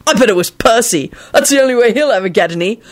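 high, gleeful teasing; cheerful. A narrator's reading. George gloating over Percy's supposed fling, cheerful. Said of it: "he finished cheerfully".

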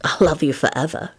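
understated sincere vow; mildly solemn; serious. A narrator's reading. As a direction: say it earnestly, without show. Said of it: "he said seriously".

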